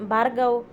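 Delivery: Bhargav stretched out in mild protest; Bhargav said long and lilting; drawn-out name. A narrator's reading. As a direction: draw out the name Bhargav in a chiding tune. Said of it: "ರಾಗ ಎಳೆದವಳು".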